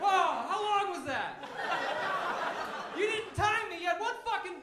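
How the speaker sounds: loud, high, breathless and amazed; breathless duck. Pretend. Duck asking how long it stayed under, breathless and loud. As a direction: still panting, thrilled at its own dive. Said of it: "be like".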